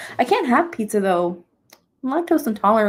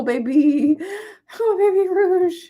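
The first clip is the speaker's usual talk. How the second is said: high, cooing pet voice; 9 semitones higher, 5 dB louder, slower than usual. Real, not acted. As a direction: coo to a pet.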